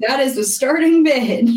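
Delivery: a hint of an auctioneer announcing the bid; lightly voiced auctioneer call. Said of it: "auctioneer voice".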